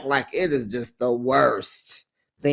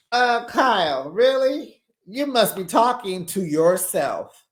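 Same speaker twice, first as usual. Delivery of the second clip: high, incredulous really; can't believe her; 3 semitones higher than usual. Real, not acted. Incredulous at Kyle.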